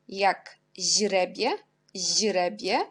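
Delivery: teacher modelling the ź in źrebie; slow demo. Shown as a demonstration. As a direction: draw out źrebie syllable by syllable. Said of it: "on prononce J".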